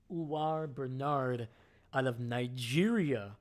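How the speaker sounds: put-on a light Nigerian accent on the name; mock Nigerian accent. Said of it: "Don't know why I did the accent".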